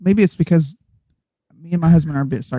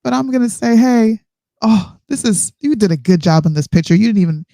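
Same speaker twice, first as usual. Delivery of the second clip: high, sugary praising parent; mock white parent voice, much higher; full-blown white parent; 7 semitones higher than usual. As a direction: gush over a child's drawing like a doting parent. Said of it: "that sounds like a full-blown white parent".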